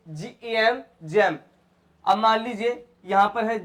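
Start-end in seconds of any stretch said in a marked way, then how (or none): 1.0-1.4 जैम opening on a J sound; soft G. Shown as a demonstration. Teacher modelling G before E, जैम with a J sound. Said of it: "क्या बनेगा ये?".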